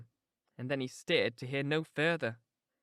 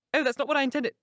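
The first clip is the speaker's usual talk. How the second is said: higher voice, stress on what; Catherine protesting; 10 semitones higher, 5 dB louder, faster than usual. A narrator's reading. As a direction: correct Nelly, a little stung.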